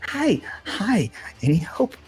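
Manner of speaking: high-pitched plea from a trapped victim; hammed-up high little cries for help; mock yelling out. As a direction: call for help in a high, pained character voice. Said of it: "sort of yelling out, like".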